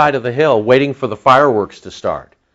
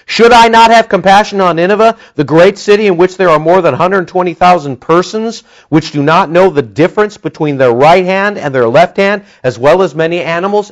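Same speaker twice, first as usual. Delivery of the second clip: loud, higher, weighty rebuke; God's rebuke; 5 semitones higher, 4 dB louder than usual. Acted. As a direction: thunder God's question. God's rebuke read aloud.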